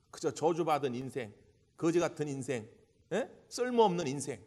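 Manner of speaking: ordinary talk, nothing marked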